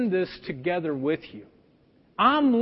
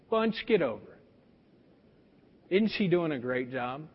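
slow, softer, calm inner voice; Spirit's voice; 6 semitones lower, 6 dB quieter, slower than usual. Retold or imitated. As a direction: gently correct him, slowly and quietly. Voicing the Spirit.

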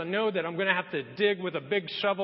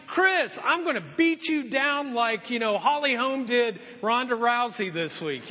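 mock threat; 4 semitones higher than usual. Wife threatening her husband with a beatdown, mock menacing. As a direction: threaten him like a fighter, half joking. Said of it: "It was like".

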